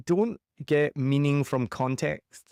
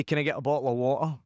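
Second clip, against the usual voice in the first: Scottish accent; faster than usual. Shown as a demonstration. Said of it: "you say".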